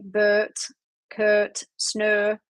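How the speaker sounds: "Bert, Kurt, Snur" with a long, drawn-out er vowel; elongated Yorkshire er. Shown as a demonstration. Explaining the Yorkshire accent to viewers, "Bert, Kurt, Snur" with elongated er. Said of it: "that part where I elongate it".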